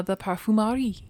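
a light French accent on Parfumerie. Shown as a demonstration. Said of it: "That's my French accent".

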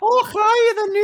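very high, loud caricature Scottish; hammed-up Scottish squawk; mock Scottish accent. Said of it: "Well, not Scottish, sorry".

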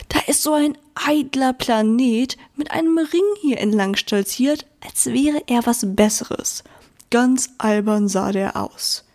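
half-whispered mocking gossip; hushed gossipy creature voice; gossiping lump. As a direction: sneer at the vain ringed planet. Rock lump gossips about planet.

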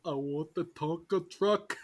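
put-on high, loud, slow kid demand; shouting little kid. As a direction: yell it like a spoiled child wanting a toy. Plays along as a child.

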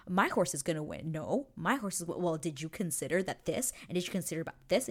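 rapid-fire retold squabble; mock bickering. Pair bickering over the horse race, mock argumentative. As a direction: argue back and forth, speeding up at the end. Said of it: "start bickering over the horse race".

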